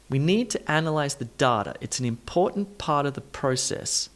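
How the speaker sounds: stressed syllables stand out in "need", "analyze", "important". Shown as a demonstration. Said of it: "You can hear that stress".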